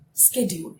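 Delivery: "Schedule" starting with sk; American pronunciation. Shown as a demonstration. Teacher speaking like a normal person, American pronunciation. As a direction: say "Schedule" as sked-yool, no put-on accent. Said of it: "I'm using the American pronunciation".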